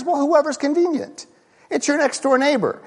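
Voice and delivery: a breezy, shrugging high voice; mock casual answer. Preacher mocking the easy answer to who is my neighbor, breezy and high. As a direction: toss it off like it's obvious.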